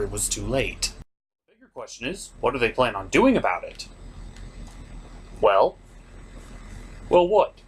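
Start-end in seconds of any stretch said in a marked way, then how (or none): 5.4-7.5 impatient prodding. Acted. Pressing Superman for answer.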